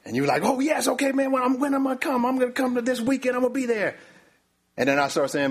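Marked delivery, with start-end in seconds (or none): 0.4-4.0 very high-pitched, gushing mock excitement; eager guest. Preacher plays guest accepting an invitation, hammed-up eagerness. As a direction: squeal your acceptance like a thrilled guest.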